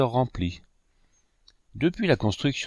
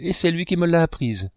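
put-on bright, higher triumphant cry of a boy; excited exclaim; 6 semitones higher than usual. A narrator's reading. The boy telling his mother he knows the fable, excited. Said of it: "s'écria-t-il".

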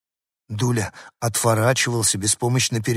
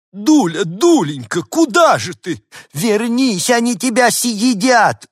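much higher, loud pleading; frantic calling; 11 semitones higher, 7 dB louder, slower than usual. Acted. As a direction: call the runaway dog back. Ladies calling after the dog.

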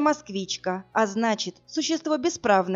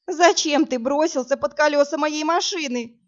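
higher, louder mock sobbing cry; 6 semitones higher, 4 dB louder than usual. A narrator's reading. Woman crying at the man who jumped under her car. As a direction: read as a sobbing wail, lightly acted. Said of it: "громко зарыдала я".

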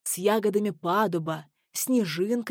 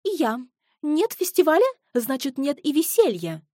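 much higher, louder shrew voice; squeaky shrew; 7 semitones higher, 5 dB louder than usual. A narrator's reading. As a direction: pout like a tiny shrew. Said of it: "сказала землеройка". (писклявым голосом)

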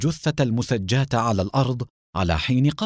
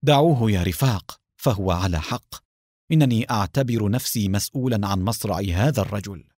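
ordinary delivery

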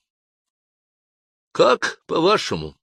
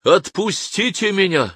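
furious shout; 11 semitones higher, slower than usual. Acted. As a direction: demand it in rage. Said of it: "в ярости закричал я".

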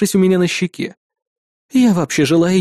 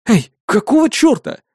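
indignant; 6 semitones higher than usual. Acted. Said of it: "возмутился я".

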